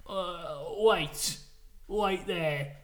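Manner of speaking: badly faked pirate captain, veering Australian; bad Jack Sparrow. Johnny Depp halting the winner, bad Jack Sparrow impression. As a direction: attempt Jack Sparrow and miss. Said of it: "he's doing his impression of Jack Sparrow".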